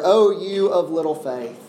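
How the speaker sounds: unhurried, with pauses around "why"; gentle reproof. Acted. Jesus to Peter after pulling him out, gently reproving. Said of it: "he gently says to Peter".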